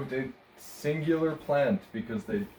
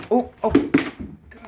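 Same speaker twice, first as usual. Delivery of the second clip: startled; 14 semitones higher, 7 dB louder, much slower than usual. Real, not acted. Startled by the cat.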